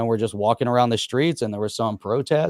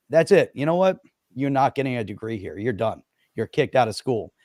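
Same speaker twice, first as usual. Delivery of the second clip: stern expulsion. Pretend. Mock dean expelling protesting students.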